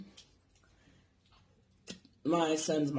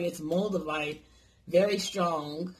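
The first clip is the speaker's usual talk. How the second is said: imitated Chinese accent; slower than usual. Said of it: "talking in fucking broken English".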